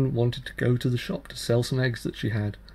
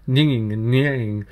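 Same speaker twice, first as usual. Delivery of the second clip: whining sound; 6 dB louder than usual. A narrator's reading. Narrator mimics the sick child's whine.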